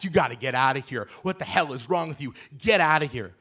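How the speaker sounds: fast mock yell of get out of here; screaming. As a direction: tear into him quickly, half-loud. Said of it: "she is screaming".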